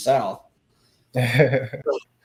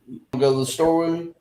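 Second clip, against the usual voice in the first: fast Southern run-together; 4 semitones higher, much faster than usual. Shown as a demonstration. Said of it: "yumped to".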